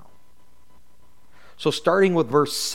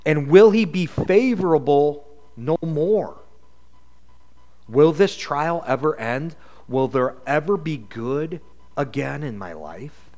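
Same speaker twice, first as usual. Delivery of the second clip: a hint of a pleading David; gentle lament to the Lord; lightly voiced crying out. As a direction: lift it as a lament to God, only lightly acted. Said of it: "he cries out to the Lord. He says".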